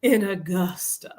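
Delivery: slow imitated Southern drawl; mock Southern accent, leisurely and drawn out. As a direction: stretch it out like the Southern older lady. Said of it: "I have to say".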